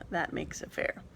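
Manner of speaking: whispered comment to herself; whispered aside. Real, not acted. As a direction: say it under your breath. Aside while setting up randomizer.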